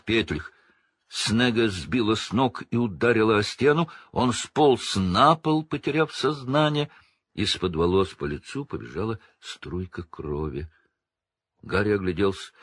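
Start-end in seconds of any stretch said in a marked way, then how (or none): none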